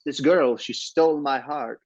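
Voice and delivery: a quick imitation of a French doctor, French accent lightly put on. Host imitating a French doctor from the movie, light French accent. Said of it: "Was that an acceptable French accent?".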